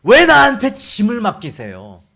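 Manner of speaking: loud protest, acted out; talking back. Moses complaining to the Lord about his burden, talking back. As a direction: challenge God as an aggrieved Moses. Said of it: "뭐라고 대드냐".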